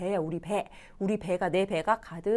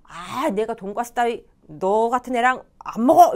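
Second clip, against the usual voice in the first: acted blunt brush-off, louder; harsh refusal; 5 dB louder than usual. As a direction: refuse too strongly, as a bad example. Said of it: "너무 강하게 거절을 해서". (너무 강하게 거절하는 연기)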